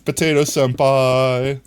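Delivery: cutesy anime voice. Pretend. Teasing a chatter with a cutesy anime nickname. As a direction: coo the nickname like an anime girl.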